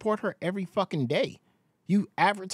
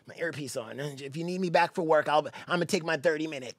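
mock angry fan; 2 semitones lower than usual. Mocking an angry fan at work.

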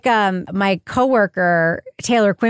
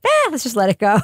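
dismissive shrug. Retold or imitated. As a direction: brush it off casually. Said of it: "and I was like".

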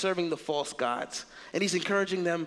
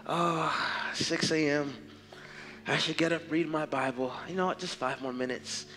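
sleepy snoozer; 4 semitones lower than usual. Pretend. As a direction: talk yourself back to sleep. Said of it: "false god called laziness".

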